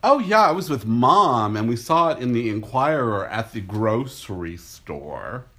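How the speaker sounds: a hint of the eager sister; mock excited gossip. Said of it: "She said".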